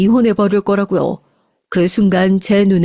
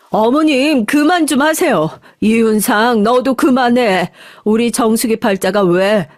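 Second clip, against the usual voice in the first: angry outburst. Acted. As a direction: stand up for your daughter, sharp and firm. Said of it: "어머니가 그렇게 화가 나서 소리를 버럭 지르는". (딸 편을 들며 시어머니와 아들에게 버럭 화내는 엄마)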